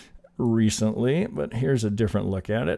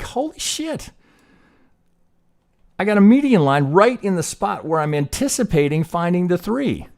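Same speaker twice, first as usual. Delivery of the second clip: much higher and louder, thrilled discovery; excited realization; 9 semitones higher, 6 dB louder than usual. Retold or imitated. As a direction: blurt it out like you just struck gold. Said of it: "and you're like".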